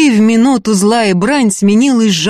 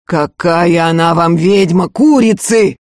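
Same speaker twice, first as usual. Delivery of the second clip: growled. Acted. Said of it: "зарычала из потёмок".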